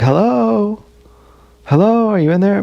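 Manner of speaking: mock call to someone behind glass.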